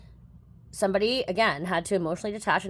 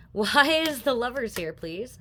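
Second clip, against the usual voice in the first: nervous laugh; 5 semitones higher than usual. Real, not acted. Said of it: "I shouldn't laugh".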